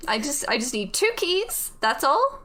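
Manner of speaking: businesslike put-on British; bad British accent. Voice in the head closes the deal with the player, put-on British accent. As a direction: wrap up the deal in hammy British. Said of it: "My horrible British accent".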